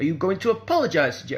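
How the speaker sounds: ironclad dictating tone. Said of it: "he said it in exactly that tone".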